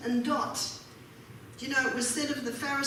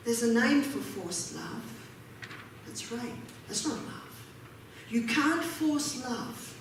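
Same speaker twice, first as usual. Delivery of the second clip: ordinary talk, nothing marked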